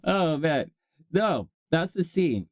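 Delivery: normal talking voice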